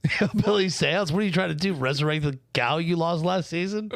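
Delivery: hammed-up backwoods hillbilly voice; hillbilly accent. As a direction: tease in a put-on hillbilly twang. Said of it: "Fucking hillbilly seance over here".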